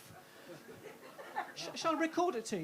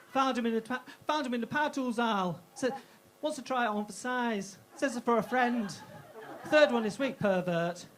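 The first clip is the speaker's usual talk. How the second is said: loud, sneering cashier; hammed-up loud till-girl jeer; mocking shop assistant; 8 dB louder than usual. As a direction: announce it to the whole shop.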